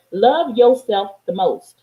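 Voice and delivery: spoken slowly, each word weighed; slow mantra. Shown as a demonstration. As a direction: lay it down slow and deliberate. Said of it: "repeated mantra, first slow take".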